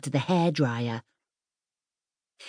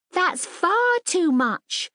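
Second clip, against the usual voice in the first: much higher, slow, alarmed shriek; 13 semitones higher, much slower than usual. Acted. Ellen alarmed at too much bubble bath, shrieking. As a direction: cry it out in alarm. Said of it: "shrieked Ellen".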